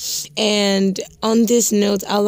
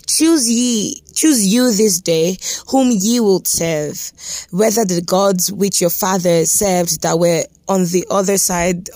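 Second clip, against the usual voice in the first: scripture reading. Acted. Preacher reading Joshua to his podcast listeners, firm scripture read. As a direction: proclaim the verse to the listeners.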